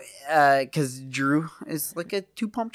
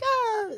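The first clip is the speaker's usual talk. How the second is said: mock eager gasp; 3 dB quieter than usual. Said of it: "making it out as if I was like".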